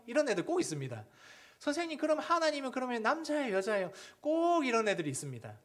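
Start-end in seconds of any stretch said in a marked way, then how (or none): 1.6-3.9 put-on high, eager kid's question; curious child. Child asking the teacher if God is male or female, high and eager. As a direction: pipe it up like a cheeky pupil.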